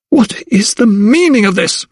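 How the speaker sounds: high sharp furious bark; barked demand. A narrator's reading. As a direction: bark it at the servants. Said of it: "she barked".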